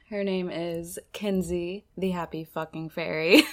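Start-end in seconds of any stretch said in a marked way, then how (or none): 2.0-3.4 laughing. Real, not acted. Introducing guest, laughing.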